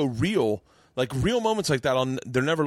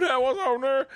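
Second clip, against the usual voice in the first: Dave Chappelle's Aquaman voice; 13 semitones higher than usual. Retold or imitated. Retelling Chappelle's Aquaman bit, goofy high phone greeting. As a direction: stretch it out like a lazy phone hello. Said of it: "he says the N-word".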